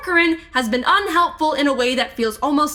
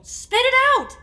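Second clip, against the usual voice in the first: sharp, much higher demand; urgent demand; 11 semitones higher than usual. Acted. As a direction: push him to speak now. Urging shocked partner.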